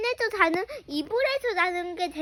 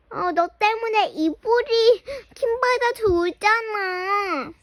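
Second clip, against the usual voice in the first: crying complaint. Acted.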